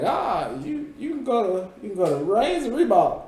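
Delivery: lightly voiced mom, pitched high; imitating mom. Speaker retells mom's school prediction, lightly imitated high voice. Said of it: "my mom was like".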